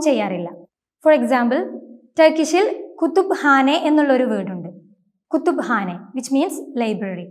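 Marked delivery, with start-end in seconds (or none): 3.0-3.8 "കുത്തുബ്ഹാനെ" with p and h sounded separately; Turkish pronunciation. Shown as a demonstration. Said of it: "കുത്തുബ് ഹാനെ എന്നാണ് ഉച്ചരിക്കേണ്ടത്". 5.3-6.0 "കുത്തുബ്ഹാനെ" with p and h sounded separately; Turkish pronunciation. Shown as a demonstration. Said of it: "കുത്തുബ് ഹാനെ എന്നാണ് ഉച്ചരിക്കേണ്ടത്".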